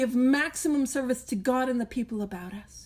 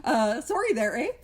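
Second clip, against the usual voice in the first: mock Canadian; 2 semitones higher than usual. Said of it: "the stereotype of saying".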